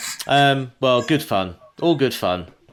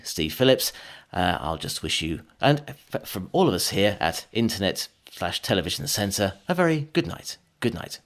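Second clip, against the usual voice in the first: continuity announcer voice. Pretend. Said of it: "Can I say that that was brilliant?".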